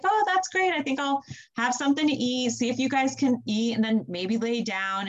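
high, breezy "Oh, that's great"; breezy mock cheer. Midwife answering husband's labor text, breezy mock cheer. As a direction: play it cool and bright, no worry.

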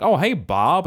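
high, swooping folksy hello; hammed-up homely small-town regular; small-town store greeting. Shop regulars greeting each other, hammed-up folksy. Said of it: "it's gonna be like".

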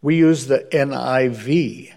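slow mock Scottish accent; deliberate, badly done Scottish accent; horrible Scottish accent. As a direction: answer slowly in imitated Scots. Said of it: "this is my horrible Scottish accent".

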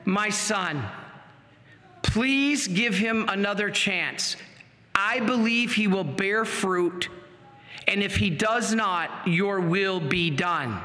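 mild motherly plea, slowing at the end; gently intercede, a touch of tenderness; tender motherly voice. Retold or imitated. Mother interceding with her son for the priest, mildly tender. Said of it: "most motherly, tender, loving voice say".

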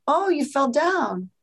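put-on gently comforting a hurt child; soothing mom. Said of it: "gets down kid level, eye to eye".

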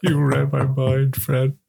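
slow, hammed-up actor impression; drawn-out catchphrase, savoured slowly; Al Pacino. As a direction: stretch each word out theatrically. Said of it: "I think, Pacino".

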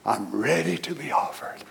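soft, calm, settled; calm readiness. Retold or imitated. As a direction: say it softly like a man at peace. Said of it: "Look at his attitude".

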